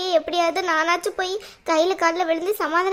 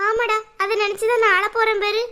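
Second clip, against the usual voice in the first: higher-pitched, mildly tearful exasperation; tearful retort; 4 semitones higher than usual. Acted. Crying mother answers son's wrong guess, tearful retort. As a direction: snap back at your son, close to tears. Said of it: "வேற எதுக்கு அழுறீங்க?".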